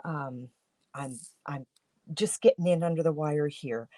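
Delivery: groggy just-woke-up voice; sleepy morning voice, barely awake. Real, not acted. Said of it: "Pardon me for my morning voice".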